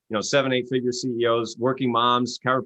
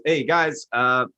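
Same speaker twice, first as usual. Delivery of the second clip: high, timid suggestion; Columbus; 5 semitones higher than usual. Retold or imitated. Columbus meekly tells doubters the earth is round, high and timid. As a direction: offer it sheepishly, way up high. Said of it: "a guy named Columbus comes along".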